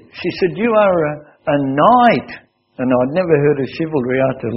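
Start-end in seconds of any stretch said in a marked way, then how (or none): 0.6-2.3 admiring Russian woman. Retold or imitated. Teacher praises him as knight.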